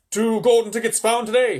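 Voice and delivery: loud, high headline cry; high-pitched newspaper shout; screaming headline. Acted. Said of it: "screamed the headlines".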